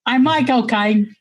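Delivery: slow, careful Cockney Caine impression; a fair Cockney Michael Caine. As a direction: drawl his name the Cockney way. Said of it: "that was really good".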